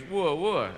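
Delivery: Wooa, wooa as a French dog barks. Retold or imitated. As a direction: bark Wooa, wooa like Tintin's Snowy. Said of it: "Snowy actually goes".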